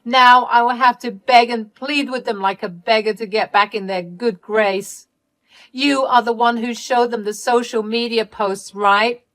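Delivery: loud, high outburst easing into indignant accusation; angry scream. Acted. Sister blaming Ellie for the loudspeaker, angry outburst. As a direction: lash out in mock outrage. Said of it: "called me back to scream at me".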